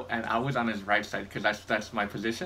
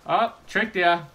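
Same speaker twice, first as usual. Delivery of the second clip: higher, louder triumphant burst; real gamer gloat; 8 semitones higher, 8 dB louder, slower than usual. Real, not acted. Gamer outplaying an enemy mid-story, loud higher gloat. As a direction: crow at the outplayed opponent.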